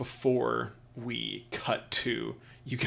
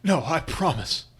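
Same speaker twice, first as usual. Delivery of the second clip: a firm, louder promise of revenge; earnest vow; 5 dB louder than usual. Acted. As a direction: swear it with rising heat. Merchant vows revenge.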